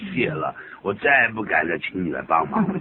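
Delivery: mildly ironic thank-you; mock gratitude with a laugh in it; sarcastic thanks. Someone thanking a helper who made things worse, mildly sarcastic. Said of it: "意思就是有点反讽的味道".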